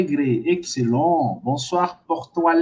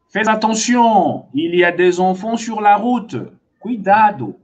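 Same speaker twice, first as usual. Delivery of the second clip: mildly raised warning call; calling for attention; 4 semitones higher, 4 dB louder than usual. Acted. Teacher warning someone driving of children on road, calling out. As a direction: warn a driver, a touch higher and louder. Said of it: "Aí eu quero chamar a tua atenção".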